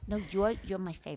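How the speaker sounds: hushed, secretive whisper. Real, not acted. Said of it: "why are you whispering".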